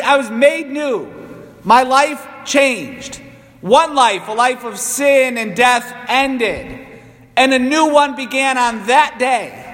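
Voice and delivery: deliberate, emphatic sermon delivery; emphatic preaching. Acted. Priest tells congregation they were reborn, emphatic preaching. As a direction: proclaim it in separate, weighted phrases.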